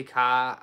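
"ka" with the R dropped; Boston car. Shown as a demonstration. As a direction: say "ka" like a Boston local, no R at the end. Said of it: "I do say".

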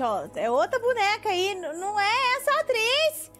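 high-pitched surprised correction; surprised realization. Real, not acted. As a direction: catch the mix-up with a squeak. Realizing wrong actress.

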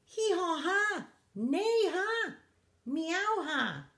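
high donkey, horse and cat laughs; mocking animal laughter. A narrator's reading. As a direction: animal calls turned into jeering ha-has. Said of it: "the other animals on the farm laughed".

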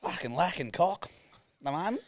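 high-pitched teasing imitation of the co-host; mock confession to mum. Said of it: "No, you went like this".

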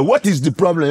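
lightly voiced African accent. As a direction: play the African guy with an accent. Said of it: "What if I play an African guy?".

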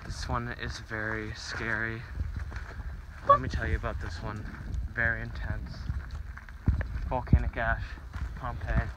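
low hushed vlogger parody; lightly voiced YouTuber intro; Logan impression. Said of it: "it's Logan here".

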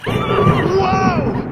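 high, loud cry of surprise; shocked it actually works; amazed whoa. Real, not acted. Sudden movement, amazed.

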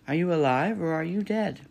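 high, loud call downward. A narrator's reading. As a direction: call up to be heard. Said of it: "The robot's voice called down".

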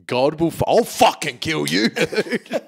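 mock threat broken by a laugh; mock angry gangster. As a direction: play a laughing tough guy making a threat.

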